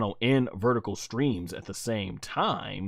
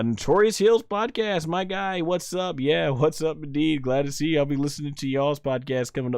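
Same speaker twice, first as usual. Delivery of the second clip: much higher and louder greeting; excited shout-out; 6 semitones higher, 6 dB louder than usual. Real, not acted. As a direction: streamer greeting a regular, excited. Greeting a viewer by name.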